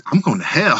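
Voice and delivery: imitating Booker, laughing out a half-shout; laughing confession. Booker caught rolling on a picture of Jesus, laughing. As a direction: cackle it out as a guilty joke.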